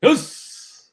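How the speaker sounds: high loud yes; excited cheer. Real, not acted. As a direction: cheer like a fan. Cheering a prediction.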